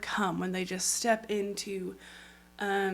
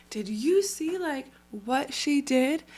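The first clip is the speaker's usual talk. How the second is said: bragging God; 5 semitones higher, 3 dB louder than usual. Retold or imitated. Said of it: "bragging about you and is like".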